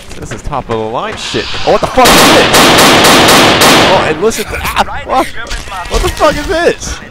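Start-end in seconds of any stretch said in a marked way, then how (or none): 1.7-7.0 high, loud disbelief; shocked yelling. Real, not acted. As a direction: yell it in total shock. Shocked at the game.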